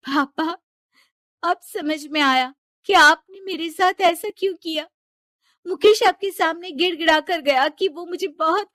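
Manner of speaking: high, loud accusing outburst at father; hurt and angry. Acted. Daughter confronting father over her marriage, angry.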